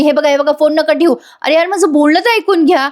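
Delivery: insistent, exasperated plea; urgent pleading. Acted. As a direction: beg them to stay on the line. Caller begs advocate not to hang up.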